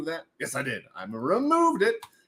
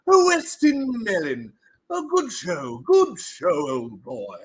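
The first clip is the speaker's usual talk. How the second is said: put-on posh British accent. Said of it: "stop talking like that".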